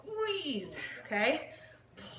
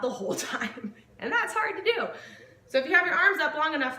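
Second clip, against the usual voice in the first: laughing through strain; 3 semitones higher, 5 dB louder, faster than usual. Real, not acted. Laughing while holding arms up.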